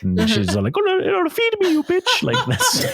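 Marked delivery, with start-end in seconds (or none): 0.8-2.2 put-on high, squeaky French accent poodle. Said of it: "French accent". 2.2-2.9 put-on French accent. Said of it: "French accent".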